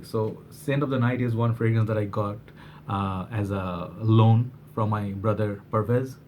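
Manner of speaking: halting, stumbling over words; slight stutter in the speech. Real, not acted. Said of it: "Sorry, I'm, like, stuttering a little bit".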